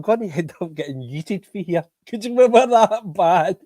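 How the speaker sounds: real laughter through the words; laughing at how bad the team was; laughing while talking. Real, not acted. Podcaster laughing to his chat about the defeat.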